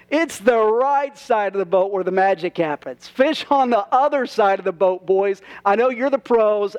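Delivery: lightly voiced Jesus teasing fishermen, mock smug; playful taunting. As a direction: rib the pros with a grin you can hear. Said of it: "He's taunting them".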